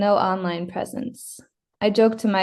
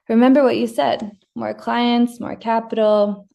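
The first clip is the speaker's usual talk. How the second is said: higher, mocking parrot of the husband's words; 3 semitones higher, 4 dB louder than usual. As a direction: throw his own words back at him, mockingly higher. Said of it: "when I parrot him".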